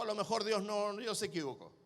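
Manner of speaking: low, hushed insinuation; insinuating second voice. Acted. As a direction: sow doubt in a soft, sinking voice. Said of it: "La segunda voz le dijo".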